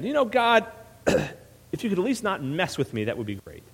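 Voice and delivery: high, indignant acted protest; Jonah. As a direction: complain bitterly, rising to an outburst. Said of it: "And Jonah's angry again".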